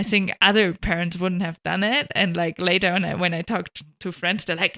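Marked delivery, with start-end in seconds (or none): none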